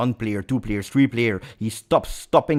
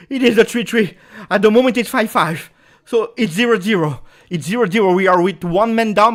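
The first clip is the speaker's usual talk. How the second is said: raised, higher and louder, still buzzing; still elated; 8 semitones higher, 6 dB louder than usual. Real, not acted. Fan telling viewers they are not out yet, excited and insistent. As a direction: keep riding the high, insistent.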